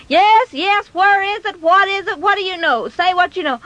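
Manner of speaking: high, urgent questioning; acted frantic demand; frantic mother. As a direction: press the boy impatiently for an answer. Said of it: "She was just at her wits' end".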